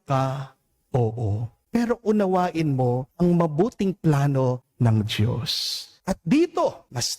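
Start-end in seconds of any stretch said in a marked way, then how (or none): none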